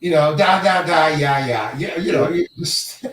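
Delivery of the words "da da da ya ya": mock Russian gibberish patter; hammed-up fake Russian, run together; improv Russian accent. Shown as a demonstration. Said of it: "an improv Russian accent".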